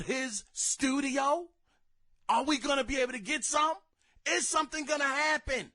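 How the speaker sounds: suspenseful build, rising toward the end; mock anticipation. Fan awaiting studio news, acting out rising hope.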